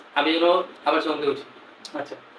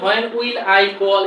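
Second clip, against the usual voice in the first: slow, each word set apart; stiff, word by word; much slower than usual. Shown as a demonstration. Teacher showing students the awkward, separated reading. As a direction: say it the odd, choppy way the teacher warns against. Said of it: "একটু odd শোনা যায়".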